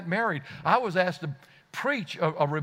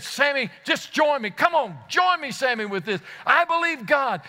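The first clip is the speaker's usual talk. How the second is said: urgent plea; 6 semitones higher than usual. Retold or imitated. Pastor urging Sammy to join in prayer, fervent. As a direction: urge him with fervor.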